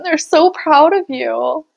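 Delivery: real emotion breaking through a pep talk; getting emotional. Real, not acted. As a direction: pitch rising, voice welling up with feeling. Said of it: "I'm getting emotional again".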